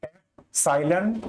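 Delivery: एप्सिलॉन said slowly, ep-sai-lon, rising at the end; naming the symbol. Shown as a demonstration. Teacher introducing the Greek letter एप्सिलॉन, slowly. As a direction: present the word एप्सिलॉन slowly, syllable by syllable. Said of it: "वो symbol होता है".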